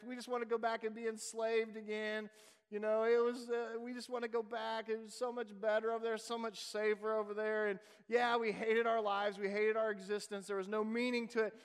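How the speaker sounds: lightly voiced complaining Israelites; mild whiny complaint. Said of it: "they're crying out".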